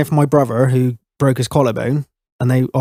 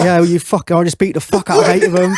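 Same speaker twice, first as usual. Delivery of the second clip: higher, insistent mock bragging; retold defensive boast; 5 semitones higher than usual. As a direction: insist on the tall tale, pitched up. Retelling his defensive boast.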